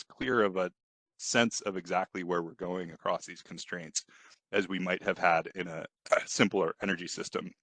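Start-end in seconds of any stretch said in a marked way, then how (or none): 1.2-7.5 short of breath between coughs; talking with a tickly, coughing throat. Real, not acted. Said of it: "stop before I cough anymore and hopefully catch my breath".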